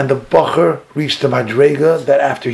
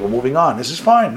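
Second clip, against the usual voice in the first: lightly mocking, pitched up; mock complacency; 2 semitones higher than usual. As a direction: imitate people brushing it off. Voicing the complacent, then rebutting them.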